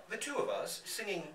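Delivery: laughing through the words; laughing while reading. Real, not acted. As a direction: read it through a real laugh.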